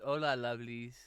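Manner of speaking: a quick, hammed-up Spanish accent greeting; mock Spanish accent. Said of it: "I don't know why I did that accent".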